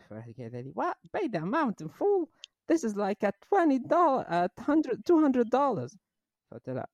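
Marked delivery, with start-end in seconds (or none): 0.7-6.0 higher, slow outraged disbelief; shocked customer. Retold or imitated. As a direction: gasp at the price. Customer shocked at full payment.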